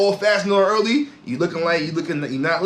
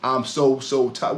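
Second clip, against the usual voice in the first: mock tired player; 4 semitones lower, slower than usual. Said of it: "I will never forget that".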